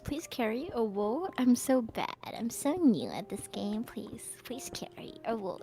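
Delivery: put-on soft breathy e-girl voice, whispered at the end; gamer girl. Shown as a demonstration. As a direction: coo it like a cute gamer girl. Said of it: "that's my, that's my e-girl voice".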